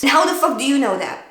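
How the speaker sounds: mild angry challenge. Shown as a demonstration. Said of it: "You're allowed to even yell".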